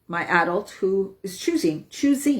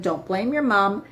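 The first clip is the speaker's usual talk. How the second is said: normal talking voice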